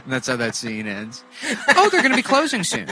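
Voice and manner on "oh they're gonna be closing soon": squeaky high imitation of a shopper; high mocking voice. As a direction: pitch it way up and mock her. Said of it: "She's like".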